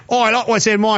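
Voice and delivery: broad but unsure Australian vowels; attempted Australian accent. Shown as a demonstration. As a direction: have a shaky go at an Australian accent. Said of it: "I can't do the Australian accent".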